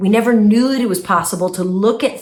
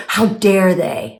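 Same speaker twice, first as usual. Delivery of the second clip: mock indignation; 3 semitones lower, slower than usual. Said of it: "another voice that tries to hijack you".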